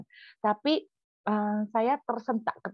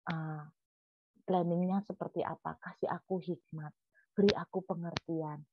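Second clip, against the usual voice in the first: humble heartfelt prayer; 5 dB quieter than usual. Pretend. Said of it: "kalau kita mau curhat".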